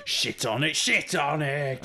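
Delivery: loud, drawn-out comic swearing; mock cursing. Joining in on dad's head-banging, mock cursing. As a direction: join in the impression, stretching it slowly.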